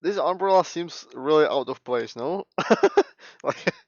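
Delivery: shouting and cackling in disbelief; loud laughing rant. Real, not acted. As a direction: yell it through laughter. Gamer streamer ranting, laughing.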